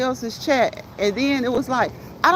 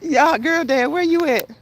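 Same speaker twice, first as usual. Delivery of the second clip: playful calling out; 5 semitones higher, 4 dB louder than usual. Pretend. Calling a viewer who left.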